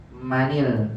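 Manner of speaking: MANIL, an i linking man to al, pitched low; linked with kasrah. Shown as a demonstration. Teacher giving the correct reading, MANIL with an i. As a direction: say MANIL low, ending in nil. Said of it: "Maka dibacanya".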